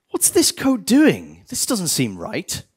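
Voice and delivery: mock puzzled dismay. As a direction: squint at the code, baffled. Mock dev discovering bad code.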